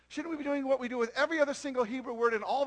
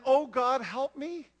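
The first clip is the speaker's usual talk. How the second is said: a more formal "Oh, God, help me" aimed far away; distant plea; 4 dB louder, slower than usual. Shown as a demonstration. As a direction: call to a God out there somewhere.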